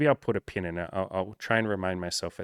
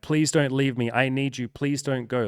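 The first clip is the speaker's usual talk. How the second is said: higher-pitched imitation of desperate begging; mock pleading; 5 semitones higher, 4 dB louder than usual. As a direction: act out a lover begging not to be left. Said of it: "from one person arguing and being like".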